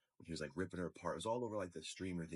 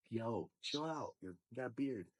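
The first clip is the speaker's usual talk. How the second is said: mocking the kid; 5 semitones higher than usual. Mimicking the little brother telling him to chill. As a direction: drag it out like a smug eleven-year-old. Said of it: "It's like".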